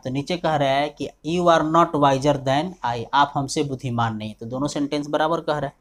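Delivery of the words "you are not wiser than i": slow dictation. Shown as a demonstration. Teacher dictates answer sentence.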